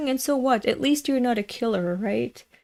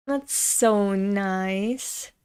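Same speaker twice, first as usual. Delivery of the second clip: gushing; much slower than usual. Real, not acted. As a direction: stretch it out, touched. Gushing over compliment.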